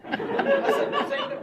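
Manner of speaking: slow, high, loud, laughing Walken line; drawn-out mock Walken. Shown as a demonstration. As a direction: stretch each word like Walken.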